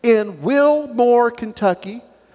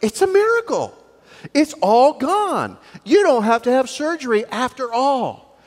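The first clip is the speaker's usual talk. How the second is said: imagined doctors' joy. Pretend. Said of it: "they said".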